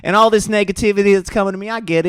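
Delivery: imitating a Southern belle telling a sweet anecdote; lightly voiced Southern belle; little-anecdote voice with a hint of the South; Hawk Tuah's little Southern belle. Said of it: "Now she talked like this. She a little Southern Belle".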